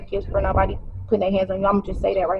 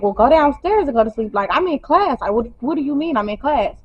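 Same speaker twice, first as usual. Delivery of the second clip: raised, pitched-up arguing back; heated retort; 4 semitones higher than usual. Retold or imitated. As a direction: snap back at him, higher.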